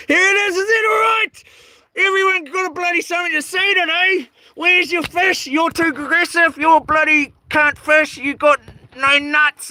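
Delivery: high, taunting mock voice; high mocking heckler voice; mocking commenters.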